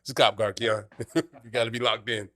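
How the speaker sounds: a hint of a paranoid friend locked in at the wheel; mild imitation of a friend focusing hard while driving; mock drunk pep talk. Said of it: "That's how he gets when he's drunk".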